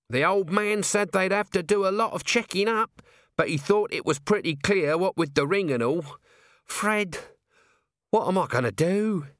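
a put-upon little man moaning his lot; Nobby, whining little corporal. A narrator's reading. Narrator voices Nobby.

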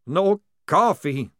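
high, slow anguished moan. Acted. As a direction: mourn the coffee. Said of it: "moaned Maledict".

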